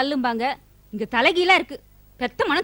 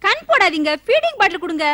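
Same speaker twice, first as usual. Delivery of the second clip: sharp scolding shout; 3 semitones higher than usual. Acted. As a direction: snap at him to stop jinxing the baby. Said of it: "ஏன் கத்துற அதுக்கு".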